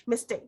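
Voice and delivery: "mistake" mis-stressed as MIS-take; stress on first syllable. Shown as a demonstration. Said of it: "not like this".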